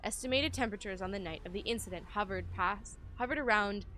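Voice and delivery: measured, emphatic narration of a report; document read-aloud. Acted. Player reading the game's note to viewers, documentary narration.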